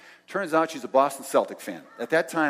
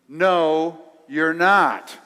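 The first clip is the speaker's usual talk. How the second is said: firm loud denial; 5 semitones higher, 10 dB louder, much slower than usual. Retold or imitated. Argument escalates back and forth.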